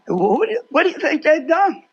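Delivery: normal talking voice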